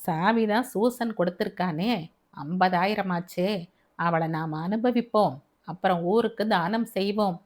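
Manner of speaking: lightly voiced drunk plotting with friends; drunken scheming man. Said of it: "ஆண்களின் சாராய சம்பாஷணை". (லேசாக நடித்த குடிகாரனின் கீழ்த்தரமான பேச்சு)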